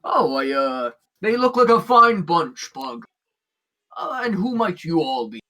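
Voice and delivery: a hint of a friendly, hesitant captain; lightly voiced orc captain. Orc captain greeting new adventurers, lightly voiced curiosity. Game master plays Downton the orc.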